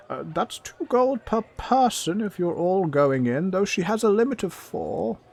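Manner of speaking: high goblin doorkeeper voice; businesslike goblin. Acted. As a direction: lay down terms as a high-pitched goblin. Goblin sets terms for party.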